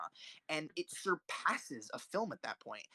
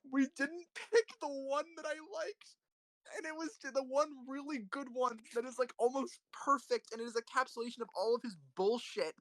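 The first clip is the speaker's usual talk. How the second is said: much higher pitched, worked-up rant; heated rant; 9 semitones higher than usual. Real, not acted. Reviewer ranting about the Fellini picks, worked up and high. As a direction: let the frustration spill out at a high pitch. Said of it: "I've been waiting for this fucking Fellini rant".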